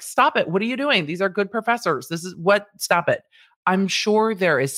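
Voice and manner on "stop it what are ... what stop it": high, scolding stop it; defensive student. Retold or imitated. Loyal student scolding classmates, high and sharp. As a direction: shush the complainers sharply. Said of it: "are like".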